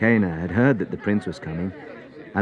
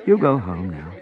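gently. Acted. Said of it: "said gently".

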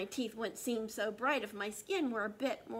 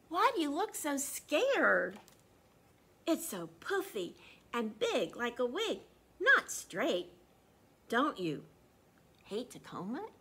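louder, mocking children's taunt; teasing kids; 6 dB louder than usual. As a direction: tease him like schoolkids. Kids teasing, voiced loudly.

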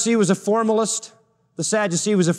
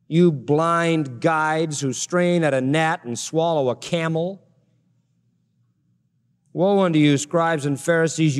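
measured, declaimed Bible verse; scripture reading. Acted. Preacher reads woes against hypocrites, measured scripture reading. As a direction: read the woe out deliberately.

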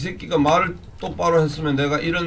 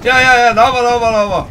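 louder, higher call to come out; taunting shout; 4 semitones higher, 8 dB louder than usual. Acted. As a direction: challenge them to step out. (적에게 나오라고 도발하는 고함)

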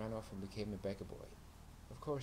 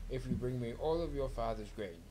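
higher, louder voiced big rat; 3 semitones higher, 5 dB louder than usual. A narrator's reading. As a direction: play the greedy big brown rat. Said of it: "said the big brown rat".

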